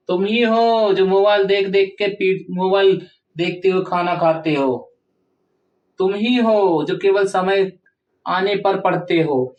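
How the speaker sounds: ही pressed in तुम ही हो; teacher scolding, ही stressed. Shown as a demonstration. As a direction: lean on ही. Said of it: "ही शब्द पे जोर पड़ रहा है ना".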